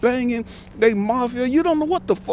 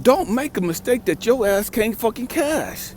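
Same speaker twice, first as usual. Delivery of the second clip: slow, deliberate, every word weighed; slow stern warning; 4 semitones higher than usual. Retold or imitated. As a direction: spell it out slowly as a threat. Stern warning to young man.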